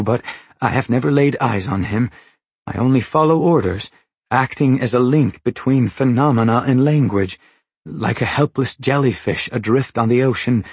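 lightly voiced Longface, earnest and imploring; Longface, pleading. Longface begs the knife-holder for his life, mildly pleading. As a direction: plead mildly, a helpless servant explaining himself.

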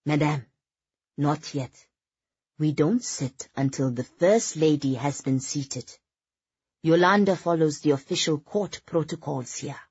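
put-on lightly Scandinavian-accented man; a hint of a Scandinavian accent, polite. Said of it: "he said in a Scandinavian accent".

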